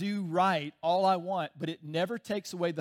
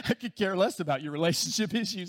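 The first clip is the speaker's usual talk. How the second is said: laughing mock server. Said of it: "It's like".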